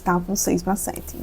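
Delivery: soft, slow, regretful news; sadly. Retold or imitated. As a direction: break the bad news gently and slowly. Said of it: "E ela tristemente disse".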